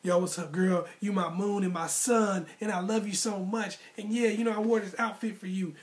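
mock thirsty guy. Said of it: "you're not jumping up there all thirsty like".

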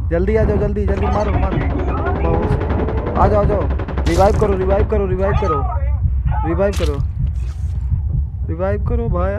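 loud, high urgent yelling; raging gamer. Real, not acted. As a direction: shout for a revive fast. Urging teammates to revive. (चिल्लाकर जल्दी revive माँगना)

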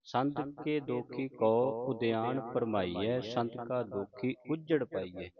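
slow, measured verse reading with drawn-out vowels; scripture recitation. Shown as a demonstration. Teacher models Gurbani for the congregation, slow recitation. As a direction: recite each verse slowly, stretching the line's long vowels.

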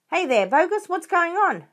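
loud, high hail from above; calling out. A narrator's reading. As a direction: call down into the pit. Crowd calling down into crater.

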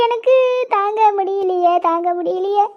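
drawn-out grieving cry, fading; fading lament. Acted. Lamenting her anger.

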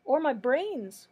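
slow, loud, high wail. A narrator's reading. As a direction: drag it out as a lament. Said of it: "wailed the Scarecrow".

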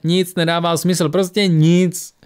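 breaking into tears. Acted. Tora to Lisbeth after her losses, breaking down in tears. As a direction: let the voice crack into crying. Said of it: "rozplakala se".

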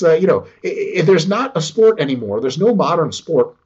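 normal talking voice

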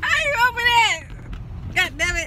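high, loud frustrated cry; frustrated yell. Real, not acted. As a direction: whine it out in frustration. Frustrated with the donut box.

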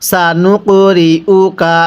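slow drawn-out tajweed chant; Quran recitation. Shown as a demonstration. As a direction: stretch every vowel like a teacher reciting. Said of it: "আমার সাথে পড়ুন".

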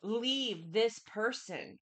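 slow pleading please; a drawn-out mock plea; begging. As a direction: beg them slowly to leave. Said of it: "begging you and saying".

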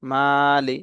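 মালি with the first vowel held one beat; one-alif stretch. Shown as a demonstration. Teacher showing beginners where to stretch, মালি with a measured long "aa". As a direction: lengthen the "aa" in মালি briefly. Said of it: "এখানে এক আলিফ টান".

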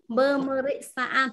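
syllable by syllable, slowly: Bơ mơ rích sa an; Bơ mơ rích sa an drawn out for the class; slow demo. Shown as a demonstration. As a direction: say Bơ mơ rích sa an slowly and clearly for students. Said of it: "sẽ sử dụng cái từ này".

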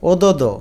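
ওদোদো in three open syllables; a vowel after each d, ওদোদো as "o-do-do"; without hasanta. Shown as a demonstration. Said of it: "যদি হসন্ত না দাও". (ওদোদো, হসন্ত ছাড়া ভেঙে)

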